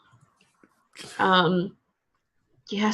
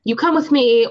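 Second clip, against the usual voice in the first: louder heavy Russian growl, hitting come; mock Russian werewolf threat, louder and pushier; bad heavy Russian accent; 3 semitones higher, 4 dB louder than usual. The werewolf bouncer threatens Augustus in a louder, heavier Russian accent. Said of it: "in my bad heavy Russian accent".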